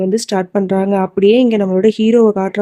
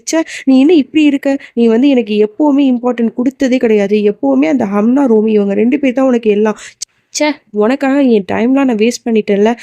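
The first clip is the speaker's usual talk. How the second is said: retold anger; 2 semitones higher than usual. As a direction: act out a touch of exasperation. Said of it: "அவ ரொம்ப கோவப்பட்டு".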